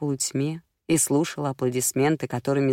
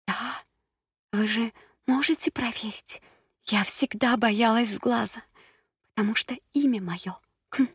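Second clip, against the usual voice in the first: взволнованная дама; 7 semitones higher than usual. A narrator's reading. Прилс откровенничает с гадалкой.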